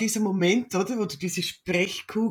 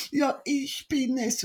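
put-on crying child; 6 semitones higher, slower than usual. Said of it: "sie kann gar nicht sprechen vor lauter Weinen".

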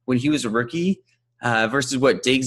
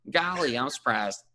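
mild Southern twang; 2 semitones higher, 4 dB quieter than usual. Acted. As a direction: say it like a folksy Southerner. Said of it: "talk on a Southern accent".

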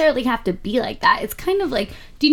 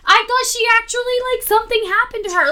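retold panic; 12 semitones higher, faster than usual. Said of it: "I was terrified".

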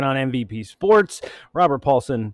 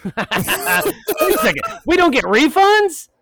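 surprised; 4 dB louder, slower than usual. Real, not acted. Surprised at no refunds.

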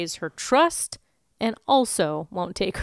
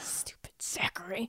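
whispered jab; under the breath, teasing; 13 dB quieter than usual. Real, not acted. Joking aside about the nephew.

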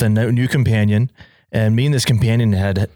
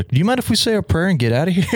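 laughing plea; 8 semitones higher, faster than usual. Retold or imitated. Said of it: "I'm like".

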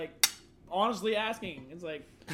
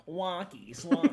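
drawn-out, slow mimicked catchphrase; lightly voiced white dude, words stretched out; imitated white dude; 5 dB louder, much slower than usual. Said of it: "the white dude's like".

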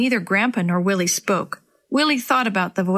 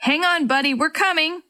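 higher reassuring call; 7 semitones higher than usual. A narrator's reading. Rescuer calls to the stranded boy, higher. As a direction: shout encouragement as you push through. Rescuer calling through the trees.

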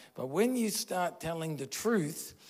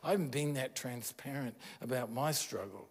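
softer, hushed inner admission; the soul owning up, softly; soul's quiet confession; 6 dB quieter than usual. Retold or imitated.

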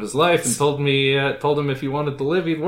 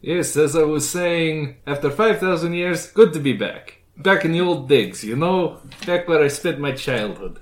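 put-on Transylvanian accent; 2 semitones higher than usual. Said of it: "That's a fucking Transylvanian accent".

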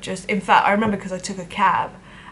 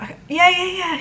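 higher, bright fake cheer; forced upbeat; 10 semitones higher, faster than usual. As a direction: put on a brave chirpy yes. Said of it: "trying to be upbeat".

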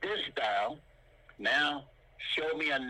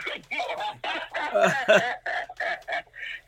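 loud, high burst of real laughter; hearty laugh; 7 semitones higher, 6 dB louder than usual. Real, not acted. Teacher jokes about charging listeners a dollar, big laugh. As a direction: laugh long at your own joke.

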